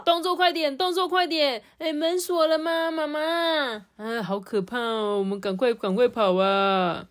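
high, hurried worm voices in mock panic; panicked villagers. Villagers rushing to the shelter, high and panicky.

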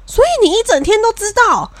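high, disbelieving question; stunned realization. Retold or imitated. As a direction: she just caught on, sound floored. Friend realizes she was fooled.

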